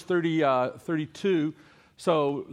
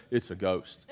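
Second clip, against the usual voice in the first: low, soft gasp of fear; hushed frightened cry; scared ghost line; 8 semitones lower, 4 dB quieter than usual. Shown as a demonstration. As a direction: breathe it out in terror. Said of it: "if you saw a ghost, you're gonna".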